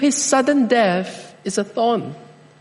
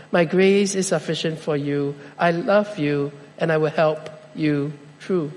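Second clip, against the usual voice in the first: softer, gentle reassurance; tender voice of God; 4 semitones lower, 4 dB quieter than usual. Pretend. Preacher voicing God to the discouraged, soft and gentle. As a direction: comfort the listener softly.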